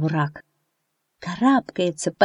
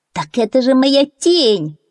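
higher, slow joyful cry; delighted duckling; 6 semitones higher, 4 dB louder, slower than usual. A narrator's reading. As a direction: exclaim with happy discovery. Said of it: "обрадовался утёнок".

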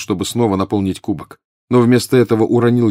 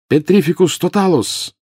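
loud, high spell cast; shouted spell; 10 semitones higher, 4 dB louder than usual. A narrator's reading. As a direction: shout the incantation. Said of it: "крикнул Гарри". (выкрикнутое заклинание)

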